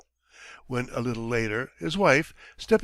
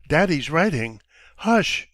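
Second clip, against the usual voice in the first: shushing; 3 semitones higher, 6 dB louder than usual. Acted. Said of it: "says his mother".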